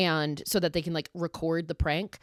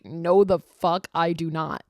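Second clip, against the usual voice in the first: emphatic refusal; 5 dB louder than usual. Retold or imitated. Adult self's emphatic refusal.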